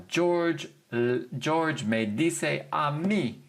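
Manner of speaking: "mí" stressed, falling at the end; emphatic mí. Shown as a demonstration. Teacher showing emphatic mí with a mock quote. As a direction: give "a mí" a firm falling stress. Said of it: "a little bit more emphatic".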